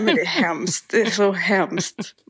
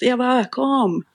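högt tonläge, utdragna ord; härma ett lockande rop på någon; återberättat rop; 5 semitones higher, much slower than usual. Retold or imitated. Återberättar hur de ropade. (imiterat, utdraget rop)

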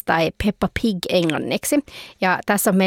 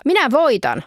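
higher triumphant battle cry; fighting boast; 6 semitones higher than usual. Acted. Fur-hat man fighting the bear, mock triumphant boast. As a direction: gloat as you fight. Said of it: "sanoo tää meidän karvalakki-hahmo".

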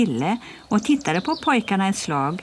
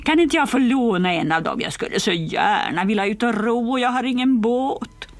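mocking bully; 5 semitones higher than usual. Bully Bengt mocking Pippi's hair to his gang, high jeer. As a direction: ridicule her hair and shoes. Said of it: "fortsatte Bengt".

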